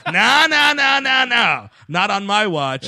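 loud, high macho warning; tough guy voice. Retold or imitated. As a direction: step in like an action hero. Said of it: "is like".

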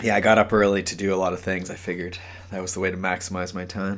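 quick, caffeinated talk; fast, lively. Real, not acted. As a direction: rattle it off, wired on coffee. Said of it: "a little less monotone than usual".

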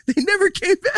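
high mocking singsong; mock the claim in a high voice. Arguing, mock voice.

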